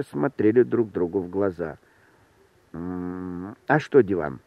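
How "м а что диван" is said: lower, hesitant hum into a question; near whisper. A narrator's reading. Host asking the stranger about the sofa, mild half-whisper. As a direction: ask guardedly, held back. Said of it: "спросил я почему-то шёпотом".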